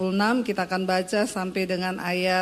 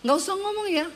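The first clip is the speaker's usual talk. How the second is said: mock teenager; 9 semitones higher than usual. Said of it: "dia bilang".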